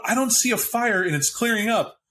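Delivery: high-pitched urgent cop telling someone to calm down; cop outside the car. Acted. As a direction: pitch way up as a rattled cop coaching someone through the locks.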